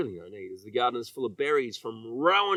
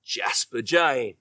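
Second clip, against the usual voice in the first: ordinary delivery, nothing marked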